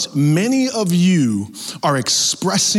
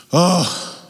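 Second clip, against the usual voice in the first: exasperated groan; 2 semitones higher than usual. Acted. Acted weariness at someone always angry.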